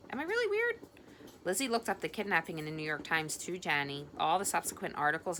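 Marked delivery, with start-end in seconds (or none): 0.1-0.8 anxious. Acted. Inner fearful question.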